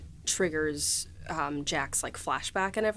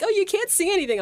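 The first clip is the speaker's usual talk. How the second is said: mock high squeal; 12 semitones higher, 5 dB louder, faster than usual. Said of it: "I was like".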